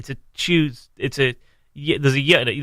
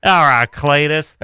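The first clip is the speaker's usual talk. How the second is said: slow slack-jawed yokel saying choozday; lightly voiced hick drawl; slower than usual. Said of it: "go full Slack Jawed yokel".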